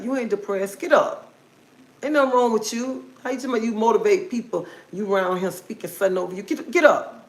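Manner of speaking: brisk rebuke, sharpening on each command; stern inner voice. Retold or imitated. Inner voice rousing her out of depression, firm and urgent. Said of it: "And a voice was like".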